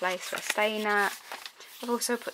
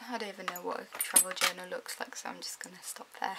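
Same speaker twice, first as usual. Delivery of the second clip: whispering; 4 semitones lower, 6 dB quieter than usual. Real, not acted. Quiet aside to camera.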